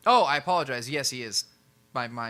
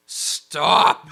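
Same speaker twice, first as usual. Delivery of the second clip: loud, higher acted yell; hammed-up shouted objection; exasperated shout; 4 semitones higher, 14 dB louder than usual. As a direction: burst out in comic protest. Sebastian protests at Monty's notes again.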